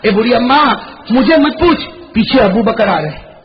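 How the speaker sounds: نرمی اور پیار سے، ہلکا سا; بوڑھی ماں کو تسلی دیتے ہوئے نرم لہجہ; lovingly. Acted. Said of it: "بڑے پیار سے فرمایا". (پیار بھرا، مدھم انداز)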